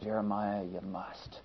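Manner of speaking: soft, hushed voice of the heart; inner voice. Retold or imitated. Jeremiah's heart urging him, hushed and quiet. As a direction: murmur it like a conscience within. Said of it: "that his heart was saying".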